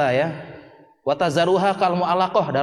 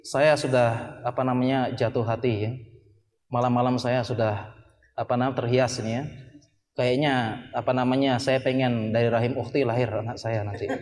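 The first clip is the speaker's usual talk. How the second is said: softer, lower, lovesick murmur; mock dreamy confession; 5 semitones lower, 3 dB quieter than usual. Preacher mimics student dreaming of sister, softer and lower. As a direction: confess it like a moony young romantic.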